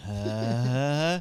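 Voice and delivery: long groggy morning groan; drawn-out "uh" as if just waking. Shown as a demonstration. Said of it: "That's me waking up in the morning".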